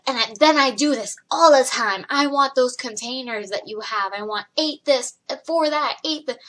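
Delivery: lightly imitated pushy customer; demanding customer. Picky caller dictating her container order to the worker, demanding.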